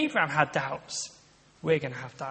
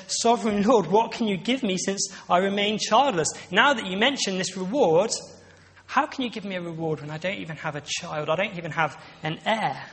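Abraham's complaint; 2 semitones higher than usual. Acted. Abraham complaining back to God.

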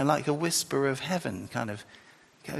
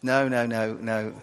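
ordinary talk, nothing marked

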